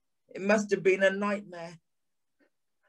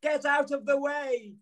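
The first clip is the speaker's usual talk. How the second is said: a touch higher, urgent plea without real volume; desperate cry; 5 semitones higher than usual. Acted. Narrator urging the man off the track, mild urgent cry. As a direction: call out urgently, understated. Running towards him shouting.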